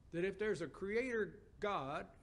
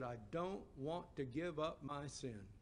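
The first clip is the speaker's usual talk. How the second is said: sad answer; 4 semitones lower, 6 dB quieter than usual. Retold or imitated. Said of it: "a sad answer".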